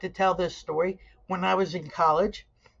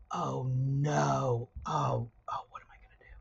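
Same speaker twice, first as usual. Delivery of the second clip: softer, lower fake distress fading to a whisper; mock panic; 6 semitones lower, 8 dB quieter than usual. Trickster fakes distress to her freshman suitemate, mock panic. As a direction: play helpless and alarmed. Feigned panic over untied shoe.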